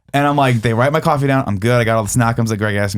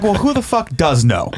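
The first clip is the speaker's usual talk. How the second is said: higher, slower irate retort; raising my voice; 6 semitones higher than usual. Retold or imitated. Customer snapping at the barista about who knows. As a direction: push back at the clerk, getting heated. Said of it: "starting to raise my voice".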